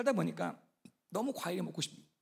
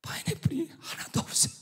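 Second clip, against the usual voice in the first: high, whispery disbelief; hushed reveal; 8 semitones higher than usual. Retold or imitated. Storyteller reveals the empty pineapple field, hushed. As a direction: let it out in an aghast stage whisper.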